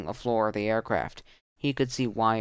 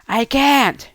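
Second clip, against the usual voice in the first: loud, much higher yell; yelled back; 13 semitones higher, 9 dB louder than usual. Acted. Tudor yelling back while holding Canmore, loud yell. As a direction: shout it back desperately. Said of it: "she yelled back".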